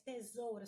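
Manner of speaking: "tesoura" with a clear e and full ou; careful "tesoura", every written vowel sounded. Shown as a demonstration. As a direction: say "te-sou-ra", e not i. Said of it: "ou, na verdade".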